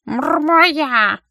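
high, loud cat purr with a lick. A narrator's reading. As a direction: purr it greedily like a fat cat. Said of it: "подтвердил Брысь и облизнулся". (мурлыча, жадным кошачьим голосом)

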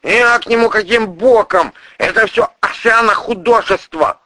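high, loud, defensive protest; shifting the blame; prosecutor's voice. Acted.

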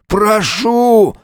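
high, slow, begging bandit cry; blurted plea. Acted. Maimed bandit begging the hero for mercy, high and drawn out. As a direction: beg for mercy in terror. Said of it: "выпалил дрожащим голосом".

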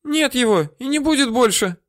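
woman moaning the bad news. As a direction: moan it out high and pitiful. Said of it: "простонала она".

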